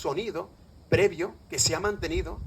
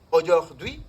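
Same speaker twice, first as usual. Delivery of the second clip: spoken French example, slowed with a final rise; French word; 5 dB louder, much slower than usual. Shown as a demonstration. Lecturer quoting a French word to beginners, French word. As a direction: say the French word slowly for learners. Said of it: "te dice uno".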